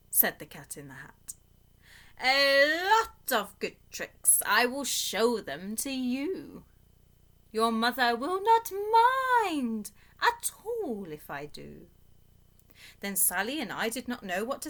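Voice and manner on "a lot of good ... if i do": slow, showy trickster cat voice; a sly cat coaxing the children; playful cat. Acted. Cat in the Hat voice.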